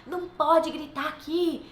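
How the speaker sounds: loud, high scolding shout; imitating a frustrated parent shouting; mock yelling at child. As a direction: yell "não pode" at a noisy kid in church. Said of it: "Adianta você gritar".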